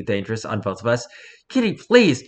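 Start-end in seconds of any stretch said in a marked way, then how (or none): 1.5-2.2 sweet pleading. Acted. Owner nudging cat away.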